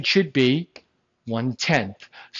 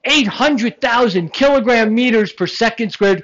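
mock announcer; 5 semitones higher, 3 dB louder than usual. Mock announcer reading long unit.

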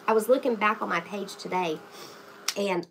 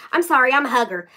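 apologetic gentleman; 4 semitones higher, 10 dB louder than usual. Retold or imitated. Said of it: "he was like".

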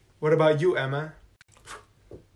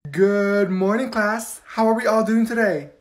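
overly cheerful teacher. Acted. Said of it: "why are you talking like that?".

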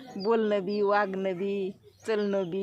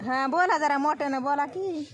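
urging call; 4 semitones higher, 3 dB louder than usual. Real, not acted. Urging villager to speak louder.

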